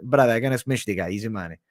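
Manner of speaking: lightly put-on Russian accent. Fighter boasting of smashing the guy, light Russian accent. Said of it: "Stick the Russian accent".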